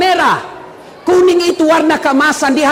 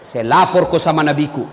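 villager threat; 11 semitones lower than usual. Retold or imitated. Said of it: "Kata ini orang tadi".

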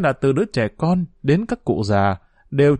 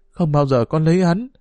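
firm, resolute; 4 semitones higher than usual. Acted. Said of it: "Giọng Hoa trở nên rắn rỏi".

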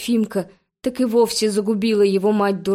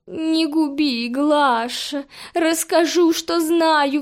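higher, frightened begging from the cat; pleading cat; 5 semitones higher, slower than usual. A narrator's reading. Cat held over the roses begging Glasha, frightened. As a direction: beg for mercy while dangling over roses. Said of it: "взмолился Фимка".

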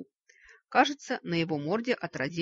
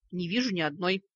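prosecutor's tone; 3 dB louder than usual. Acted. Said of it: "тоном прокурора заявил Вик".

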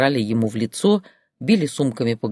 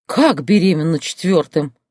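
higher, louder gasp of disbelief; gasping shock; 5 semitones higher, 4 dB louder than usual. Acted. Grandmother gasps at news of a fourth pregnancy. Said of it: "ахнула бабка".

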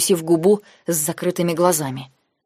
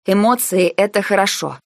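ordinary delivery

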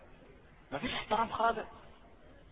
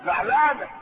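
mock upset; 2 semitones higher than usual. Shown as a demonstration.

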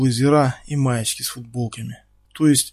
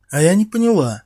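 higher, louder nagging whine; needling little voice; 6 semitones higher, 6 dB louder than usual. Acted. Ксюша въедливо придирается к Феликсу. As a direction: needle him pettily. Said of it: "въедливым голоском".

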